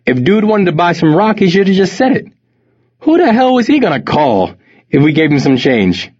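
put-on high, scoffing Jamaican accent. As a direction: laugh him off in a Jamaican accent. Friend mocks the panhandler.

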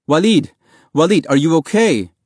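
loud, high worried shout; panicked calling. A narrator's reading. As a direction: call out to him in panic. Boy calls his brother.

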